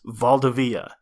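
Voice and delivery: Valdivia with its second vowel shortened to "uh", stress moved later; unstressed second syllable. Shown as a demonstration. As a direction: say Valdivia as val-duh-VEE-uh. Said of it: "will be shortened as either I or".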